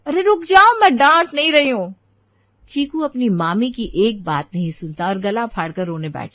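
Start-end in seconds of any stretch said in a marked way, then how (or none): 0.1-1.9 put-on higher, louder calling after the child; raised, high anxious reassurance; hurried plea. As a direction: stop him before he runs to grandma. Child threatens to complain.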